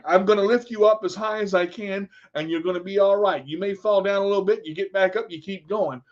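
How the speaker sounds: plain, brisk American accent. Shown as a demonstration. Coach encouraging a student to keep going, American accent. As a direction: do an easy, quick American accent.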